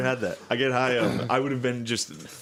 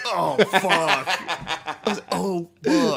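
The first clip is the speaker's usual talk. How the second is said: mock dread; 7 semitones higher, 3 dB louder, much slower than usual. Retold dread at being caught.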